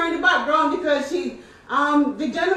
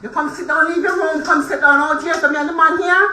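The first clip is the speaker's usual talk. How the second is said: loud, sharp order to leave; angry yelling; 2 semitones higher, 6 dB louder than usual. Real, not acted. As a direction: yell at her to go back inside. Landlord orders tenant back to room.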